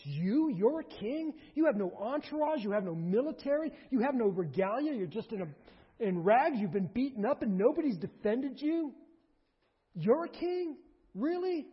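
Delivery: high, scornful disbelief; contemptuous Pilate. Acted. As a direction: belittle the ragged prisoner. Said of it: "there's contempt behind this".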